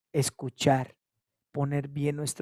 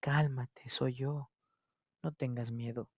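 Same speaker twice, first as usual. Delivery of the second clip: soft reassurance; 2 semitones lower, 6 dB quieter than usual. Acted. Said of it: "Escuchemos a Cristo decir".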